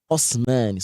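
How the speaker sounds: Khusmani with dark full kha and u; heavy khu. Shown as a demonstration. Teacher corrects class on verse: heavy Khusmani. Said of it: "So we don't say khasmani".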